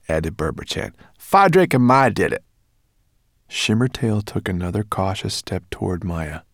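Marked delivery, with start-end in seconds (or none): 1.2-2.4 high, loud, cheeky brownie voice; squeaky brownie. A narrator's reading. Brownie answering the dragon, high and cheeky. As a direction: pipe it up like a bold little brownie.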